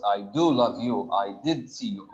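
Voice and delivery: "do" and "did" lightly stressed, a mild emphatic demo; a gentle nudge on "do" and "did". Shown as a demonstration. Teacher explaining the emphatic answer, light stress on "do". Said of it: "Emphatic, because".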